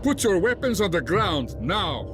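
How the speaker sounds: high, urgent armed challenge; tense guard's sharp order; barked command. Acted. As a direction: order an intruder to disarm at once.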